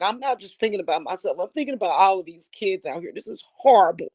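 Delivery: quick, choked-up rush of words; getting emotional. Real, not acted. Welling up while telling her viewers about hungry kids, speeding up. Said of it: "I'm getting emotional".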